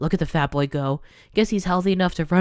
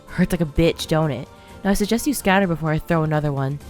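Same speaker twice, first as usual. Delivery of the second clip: put-on louder, hard threatening old woman; thick with rage; 4 dB louder than usual. Grandmother threatening the bullies with rage. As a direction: warn the kids off with menace. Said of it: "voice thick with rage".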